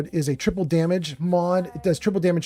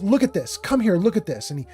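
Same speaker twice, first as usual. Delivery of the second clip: mock angry voice, higher pitch; 4 semitones higher than usual. Retelling what the officer said at the wrecked car: imitating an angry officer. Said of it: "the officer got so mad".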